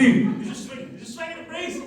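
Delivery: giggling high and breathless; laughing through it. Real, not acted. Comedian cracking up at his own joke, laughing. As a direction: laugh it out as you go.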